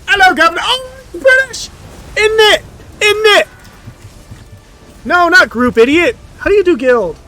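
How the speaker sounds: loud, high hammed-up British accent; mock British accent. Gamer goofing for his guild in a loud British accent. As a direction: play the silly Brit at full volume. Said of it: "Now they know I'm British".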